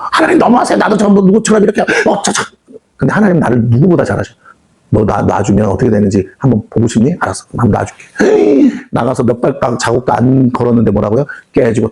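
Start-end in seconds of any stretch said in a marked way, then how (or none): 0.1-2.4 whining believer. Acted. Believer complaining to God. 4.9-8.0 God's low stern reply. Acted. God answers the complaining believer.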